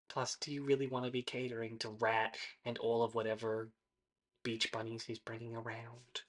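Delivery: hushed aside, very quiet; whispered. Acted. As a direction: whisper it conspiratorially. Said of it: "whisper that last bit to you".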